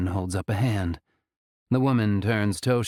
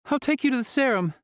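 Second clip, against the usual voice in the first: tense surrender; faster than usual. A narrator's reading. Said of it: "she says".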